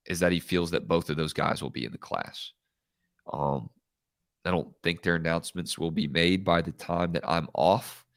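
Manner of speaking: blocked nose, congested voice; nose pinched. Real, not acted. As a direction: talk through a stuffy nose. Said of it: "I sound like I have a clothespin on my nose".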